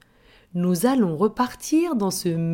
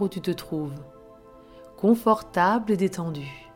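right in your ear. Acted. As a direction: breathe them gently into calm. Leads a relaxation before story. (voix douce de relaxation guidée)

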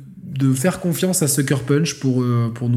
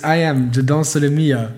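put-on American accent. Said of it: "je fais avec l'accent américain".

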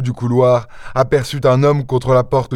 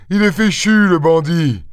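high-pitched gloating jeer; sneering; 6 semitones higher than usual. A narrator's reading. Master gloating over the trapped thief, sneering. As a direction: sneer in triumph with raised pitch. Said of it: "ricana maître Goussot".

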